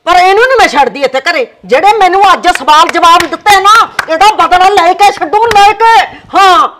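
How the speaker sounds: ਗੁੱਸੇ ਵਿੱਚ ਉੱਚੀ ਆਵਾਜ਼; angry loud vow. Acted. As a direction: builds to a furious shout. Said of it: "ਹੌਲੀ ਤਾਂ ਬੋਲ ਪਾ ਮਾਂ".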